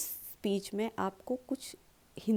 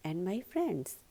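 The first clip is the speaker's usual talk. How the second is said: smiling warmth; 5 dB quieter, much slower than usual. Shown as a demonstration. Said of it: "जो कि आप एक smile के साथ बोल सकते हैं".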